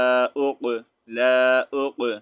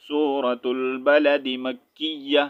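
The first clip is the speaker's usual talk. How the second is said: in one breath; much slower than usual. Shown as a demonstration. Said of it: "ایک ہی سانس میں پڑھوں گا".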